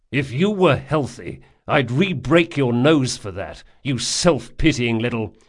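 loud, menacing, cut off; angry threat. Acted. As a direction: threaten him through your teeth. Jean threatens Locke.

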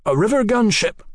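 hoarse, high-pitched exclamation; hoarse announcement. A narrator's reading. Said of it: "he announced hoarsely".

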